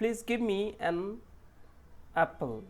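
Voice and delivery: each word slow and clear; slow sentence demo. Shown as a demonstration. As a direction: read it out slowly for learners. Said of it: "দেখি".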